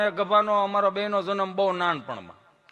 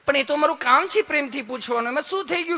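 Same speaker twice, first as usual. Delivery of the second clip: higher, lovingly insistent nurse voice; hammed-up honeyed nurse; sweet nurse; 7 semitones higher, faster than usual. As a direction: reassure him sweetly, rising as she goes. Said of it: "તમે કેટલું પ્રેમથી પૂછો છો".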